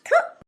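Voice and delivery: short, high-pitched "thu" of disgust; mock spit in scorn; scornful spitting noise. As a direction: spit out a quick sound of contempt. Spits scorn at his boast.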